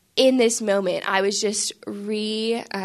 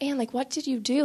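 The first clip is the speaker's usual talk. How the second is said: higher, mildly puzzled imitation of the priest; not really mad; 4 semitones higher, 4 dB quieter than usual. Priest asks his helper, puzzled but not really mad. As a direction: ask it as a gentle, bewildered reproach. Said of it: "it wasn't that he was really mad".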